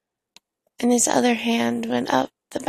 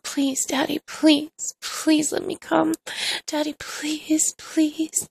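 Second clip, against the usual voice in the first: higher, urgent plea without real volume; retold begging; 4 semitones higher, slower than usual. Narrator recalls pleading before a silent room, begging. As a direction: plead insistently in a raised pitch. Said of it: "I was begging Daddy so loud".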